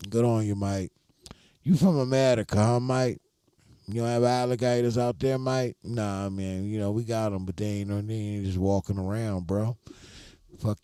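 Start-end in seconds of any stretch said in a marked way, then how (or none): 0.1-5.8 imitating a nosy Aussie customer, higher; mock Australian quizzing an American; Australian accent. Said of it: "Australian people are rude".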